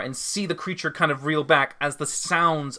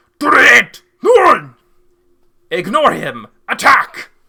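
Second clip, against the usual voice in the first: very loud, high, barked, commanding monster voice; 8 semitones higher, 13 dB louder than usual. In a tabletop game, the narrator voices a bugbear calling out to its allies. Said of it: "the bugbear just calls out and goes".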